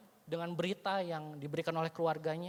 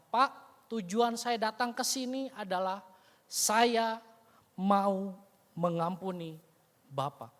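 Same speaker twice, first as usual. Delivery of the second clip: sincere forgiveness; slower than usual. Retold or imitated. Son offers forgiveness.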